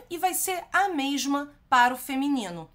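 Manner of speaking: ordinary delivery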